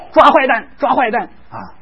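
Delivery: put-on high, excited call to little kids; high-pitched game cry; playful chase call. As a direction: call children into a pretend police chase. Playing police chase with toddlers.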